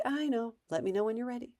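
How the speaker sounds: mildly sympathetic, unargumentative reply; loving calm. Shown as a demonstration. Parent declining to argue with kid, lovingly calm. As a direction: stay gentle and refuse the fight. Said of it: "you just lovingly say".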